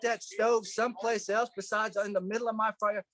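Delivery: high-pitched retold indignation; acting out an exasperated complaint; fired up. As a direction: plead it out, worked up. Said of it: "and I'm fired up, man".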